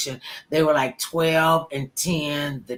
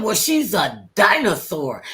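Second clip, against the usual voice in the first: put-on slow, drawn-out child's verdict; dismissive retort; 4 dB louder than usual. Twin dismissing the celebrity to sister, drawn-out retort. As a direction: stretch it out as a put-down.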